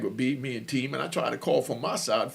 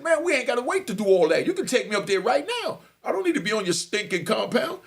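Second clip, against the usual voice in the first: raised, indignant retold retort; angry comeback; 5 semitones higher than usual. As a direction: act out a heated challenge to the officer. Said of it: "now I'm getting mad".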